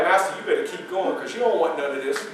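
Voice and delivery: low, soft private warning; said to himself. Acted. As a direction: keep it under your voice, for yourself only. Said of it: "what I said to myself".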